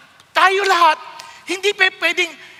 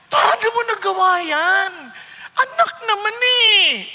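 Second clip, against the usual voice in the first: pained father; 3 semitones higher than usual. Retold or imitated. Father grieving over the child who was fooled, crying plea. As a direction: plead like a heartbroken father to his child. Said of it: "pakiramdam ng tatay".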